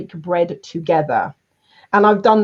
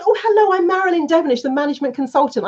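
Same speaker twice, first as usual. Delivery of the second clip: brisk polite greeting; 6 semitones higher, faster than usual. Retold or imitated. Introducing herself to the manager.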